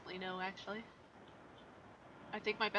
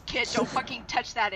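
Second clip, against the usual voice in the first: raised voice, firm in-character warning; stern warning; 2 semitones higher, 6 dB louder than usual. Acted. Rex warns Kid away from the spear, stern and raised. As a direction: warn the kid off firmly and loudly.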